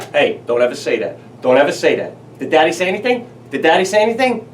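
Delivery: loud, insistent scolding with a questioning edge; firm dad cover-up. Retold or imitated. Dad to his daughter, a loud firm cover-up. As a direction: hurriedly cover your tracks with the kid. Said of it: "I quick look back at my daughter".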